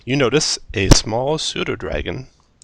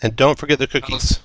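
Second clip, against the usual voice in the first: put-on calling old woman; 4 semitones higher than usual. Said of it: "she calls out".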